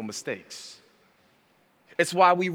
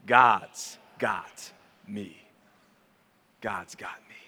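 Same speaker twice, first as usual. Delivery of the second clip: slow hushed repeat; 5 semitones lower, slower than usual. Shown as a demonstration. Pastor says it along with the congregation, slow and hushed. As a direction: say it slowly with the room, fading to a whisper. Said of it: "I want you to say that with me".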